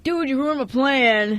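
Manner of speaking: a hint of an irritated friend; mad Quinn. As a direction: drag out the annoyed complaint. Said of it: "he'll be a little mad that he's like".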